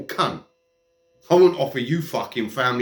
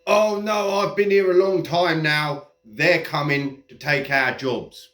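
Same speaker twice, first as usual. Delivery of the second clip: mock moaning immigrant. Mocking immigrants who moan about newer immigrants, whiny parody. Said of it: "immigrants moaning about other immigrants".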